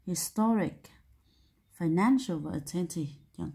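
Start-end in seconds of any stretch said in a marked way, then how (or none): 0.1-0.8 "Historic" stressed on the middle syllable "to"; second-syllable stress. Shown as a demonstration. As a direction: lean on "to" in "Historic". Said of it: "nó nhấn âm hai". (nhấn âm hai "to" trong "Historic")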